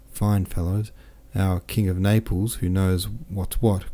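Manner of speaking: lightly voiced, lively boastful officer; a hint of a jovial soldier bragging; cheerful French captain. Captain boasts of his wounds to Pierre, lightly voiced jovial.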